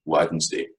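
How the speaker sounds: Wednesday said as wad-ens-day; three-syllable Wednesday. Shown as a demonstration. Scots teacher repeating the Scots three-syllable Wednesday. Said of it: "three syllables of Scots".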